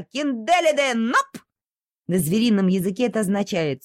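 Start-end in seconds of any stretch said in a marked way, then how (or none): 0.0-1.4 dog calling. Acted. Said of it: "закричала она".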